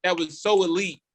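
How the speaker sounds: talking through real laughter; laughing. Real, not acted. Recalling an elite quote with the host, laughing. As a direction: let laughter bubble through the words.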